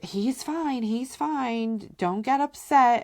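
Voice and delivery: calm the panicked mother; soothing sitter. Retold or imitated. Babysitter reassuring the mother on FaceTime, high and hurried.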